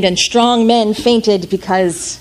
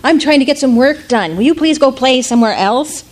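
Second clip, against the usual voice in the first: higher, exasperated grown-up voice; annoyed adults; 5 semitones higher than usual. Acted. Busy adults shooing the boy away, irritated. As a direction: shoo the child away, fed up. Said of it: "And all the adults said".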